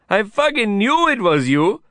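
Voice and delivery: high-pitched exclamation in character; excited shout. A narrator's reading. Vikram spotting his friend, shouting high. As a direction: cry it out in high-pitched recognition. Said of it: "Vikram shouted".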